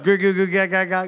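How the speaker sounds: lightly imitated cooing mum; baby talk. Mom talking to her one-year-old, light mock baby talk. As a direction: babble mock baby noises in an even tone. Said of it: "mom's going".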